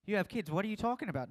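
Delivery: high, loud disbelieving challenge; incredulous accuser. Pretend. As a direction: call him out in disbelief. Accuser calling out Matt.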